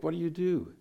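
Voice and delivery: high-pitched panicked cry; reliving the helpless panic as gunships fired; panicked question. Retold or imitated. As gunships fire over his house, a high panicked question to himself. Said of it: "and I was panicking".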